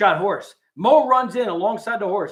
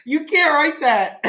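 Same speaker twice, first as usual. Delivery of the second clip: laughing disbelief; 5 semitones higher, 6 dB louder than usual. Real, not acted.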